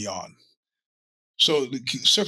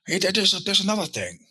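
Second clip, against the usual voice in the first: pause, then pop back with one more thing; Columbo; 8 semitones higher than usual. Retold or imitated. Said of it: "a little like, uh, Columbo".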